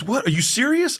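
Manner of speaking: high-pitched retold disbelief; flipping out. Comic imitating the joke thief who flipped out, incredulous. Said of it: "He flipped out".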